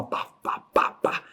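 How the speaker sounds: toneless popping "pá" bursts; imitated pounding pulse. Host recalling his racing heart, imitated pounding. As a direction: mimic a pulse about to burst. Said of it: "faltava explodir".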